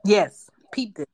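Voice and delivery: breathy whisper; whispered echo. Real, not acted. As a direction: whisper it back. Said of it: "echoes in whisper".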